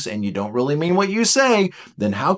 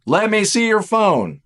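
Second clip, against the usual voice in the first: "Let me see your phone" louder, higher and slower, each word pressed; insistent demand; 6 semitones higher, 4 dB louder, slower than usual. Pretend. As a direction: repeat it as a stern, escalating demand. Suspicious partner demands phone.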